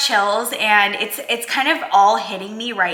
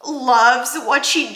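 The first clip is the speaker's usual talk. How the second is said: about to cry; much slower than usual. Real, not acted. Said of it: "I'm gonna cry".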